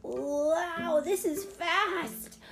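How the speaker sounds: put-on high, drawn-out child voice; thrilled kid. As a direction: marvel at the speed like a child. Alex zooming downhill.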